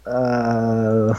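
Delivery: low, drawn-out hesitant "uh"; imitated reluctant hum; reluctant groan. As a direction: groan as if cornered by a plea. Acted reluctant reaction to pleading.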